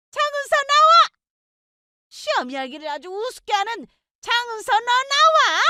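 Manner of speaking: shrill high yelling; screaming mother-in-law. Acted. Mother-in-law yells for her daughter-in-law at work, shrill and high. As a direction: scream her name across the office.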